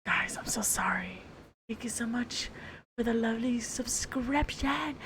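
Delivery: soft whispered thanks; asmr whisper. Acted. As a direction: whisper gently to the listener.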